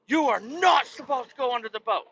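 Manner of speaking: high, prissy scolding voice; high mocking scold. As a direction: mimic a fussy in-law. In-laws mocked scolding.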